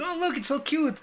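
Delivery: high cooing mom voice; imitated mother. Imitating mom showing off the hat, high cooing voice. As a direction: coo over it like a mom. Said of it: "she's like".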